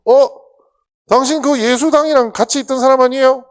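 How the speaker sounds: put-on high loud startled girl; a young maid pointing him out, high; young servant girl. Servant girl questioning Peter, high loud surprise.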